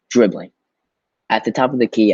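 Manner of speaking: lively rhythmic read with punched words; expressive poem reading. Shown as a demonstration. Teacher reading a poem aloud to students, expressive and rhythmic. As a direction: perform the poem with bounce and emphasis. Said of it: "So I'm gonna read this for y'all so you understand how it's supposed to sound".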